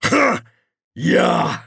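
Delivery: high, loud nervous blurt; nervous stalling. Acted. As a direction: force out an answer in fright. Terrified stalling before guards.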